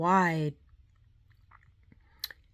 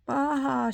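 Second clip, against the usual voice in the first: crying sob; 6 semitones higher than usual. A narrator's reading. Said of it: "she cried".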